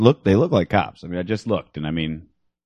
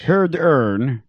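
put-on Swedish accent; 4 semitones higher than usual. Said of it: "What, what was that".

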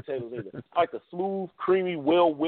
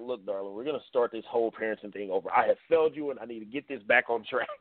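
soft, gentle apology to a little daughter; a hushed, sincere sorry to a child; tender apology to child; 4 semitones lower, 3 dB quieter than usual. Pretend. Father softly apologizes to his daughter for failing her, gently. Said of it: "go there and be like".

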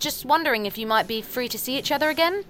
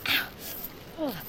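in pain; 9 semitones higher than usual. Acted. Walking on sharp pebbles.

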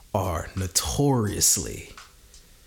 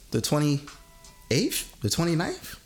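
excited; 10 semitones higher than usual. Real, not acted. Hyped about legal weed.

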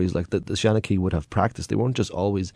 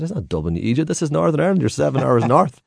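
exasperated; 7 semitones higher than usual. Retold or imitated. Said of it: "I said".

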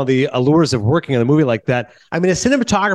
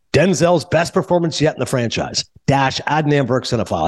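quoted printed blurb. Retold or imitated. Reading his blurb as printed.

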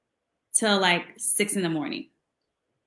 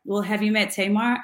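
Prince. Retold or imitated. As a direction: lightly imitate a star's understated talk. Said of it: "this is how he always talked".

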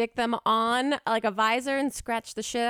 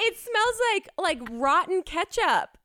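disgusted by smell; 7 semitones higher than usual. Real, not acted. Describing the horrible smell.

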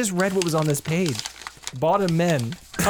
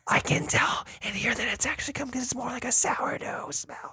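whispering; 9 semitones higher, 6 dB quieter than usual. Acted. Secretive whispered claim.

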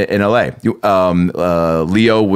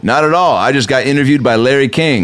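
smug boast; 4 semitones higher than usual. Retold or imitated. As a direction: show off cheerfully to Larry King. Bragging to annoyed celebrity.

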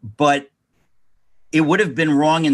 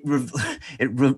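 laughing. Real, not acted. Laughing while recalling.

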